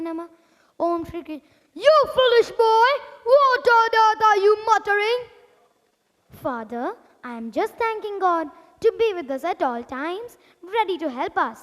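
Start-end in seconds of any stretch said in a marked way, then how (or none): 1.7-5.2 mildly scolding king father; a touch of a cruel father. Acted. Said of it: "his cruel father". 6.4-11.6 put-on softer, quieter boy's reply; gentle devoted son. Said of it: "a unique boy named Prahlad".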